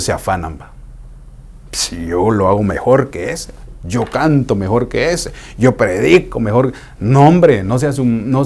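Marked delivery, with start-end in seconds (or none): 1.7-6.7 a lightly voiced braggart comparing himself; mock boasting. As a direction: brag like a proud churchgoer. Arrogant believer voiced bragging.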